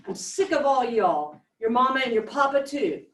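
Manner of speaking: lightly acted Mississippi dialect; Southern dialect. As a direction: read the character's Southern dialect aloud. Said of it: "quite a bit of dialect in it".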